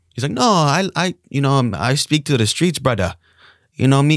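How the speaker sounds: put-on Hawaiian accent. Imitating a man being discussed, in a Hawaiian accent. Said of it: "That's a good Hawaiian accent, huh?".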